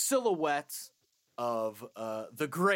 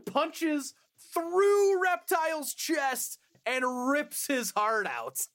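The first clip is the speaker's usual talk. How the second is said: laughing through it; 10 semitones higher, 3 dB louder, slower than usual. Real, not acted. Gleeful gory retelling.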